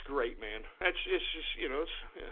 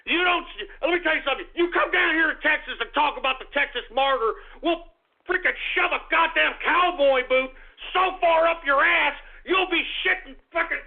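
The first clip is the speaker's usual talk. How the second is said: yelling threat; 4 semitones higher than usual. Acted. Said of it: "I'm yelling at you pricks".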